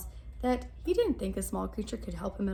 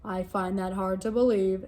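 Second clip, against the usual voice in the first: doubting lion; 4 semitones lower, 6 dB louder than usual. Acted. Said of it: "said the lion".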